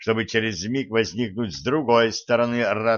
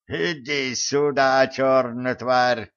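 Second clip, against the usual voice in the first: shouted; 2 semitones higher, slower than usual. Acted. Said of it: "крикнул староста".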